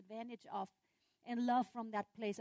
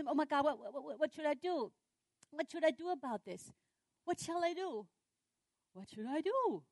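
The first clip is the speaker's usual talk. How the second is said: higher, stammering fretting; mock panic; 4 semitones higher than usual. Person hit by sudden trouble, mock flustered. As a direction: fret helplessly, acting flustered.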